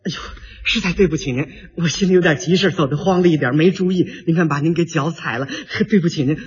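acted, placating politeness; polite apology. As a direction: apologize courteously for stepping on a foot. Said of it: "两句客气话，".

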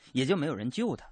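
ordinary talk

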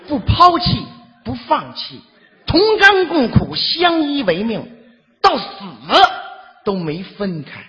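slow, swelling mock-solemn recital; hammed-up ode, stretched out; mock sentimental. Musing on the way home, mock sentimental.

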